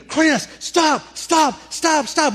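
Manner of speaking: high, loud panicked shout; screaming. Retold or imitated. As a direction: scream at the driver to stop. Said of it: "And I'm screaming".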